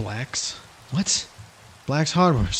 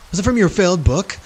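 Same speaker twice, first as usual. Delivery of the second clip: Stewie voice; 4 semitones higher than usual. Pretend. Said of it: "Stewie, okay?".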